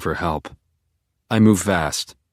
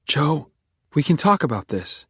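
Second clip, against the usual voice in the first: high, pleading voice; 8 semitones higher than usual. Acted. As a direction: plead with him gently. Beck pleading with Joe.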